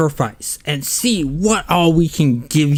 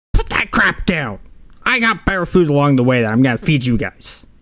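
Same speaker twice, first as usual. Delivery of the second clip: put-on goblin voice. Storyteller voicing a goblin talking to the group, in a goblin voice. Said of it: "the goblin says".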